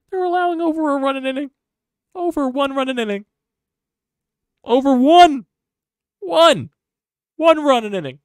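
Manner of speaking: high, loud outraged screech, building; a fan's voice cracking high in fury; exasperated shriek. Real, not acted. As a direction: shriek it in disbelief at the stats. Fan ranting about bad pitching.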